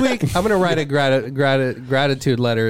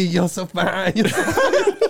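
flirty falsetto; 5 semitones higher, slower than usual. Pretend. Mock flirting, rising falsetto.

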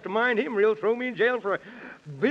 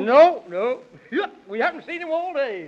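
louder hasty no, no; blurted denial; 5 semitones higher, 4 dB louder than usual. Acted. Man in the Moon blurts from hiding, loud and hasty. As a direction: give yourself away in a rush.

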